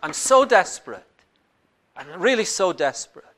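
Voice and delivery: loud, urgent begging to God; desperate pleading prayer. Retold or imitated. A believer knocking on God's door, pleading loudly in desperation. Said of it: "you're knocking on the door and you're going".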